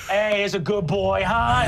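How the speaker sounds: lightly voiced grandpa fussing over a dog; doting David. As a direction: coo at the dog. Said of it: "you see he goes".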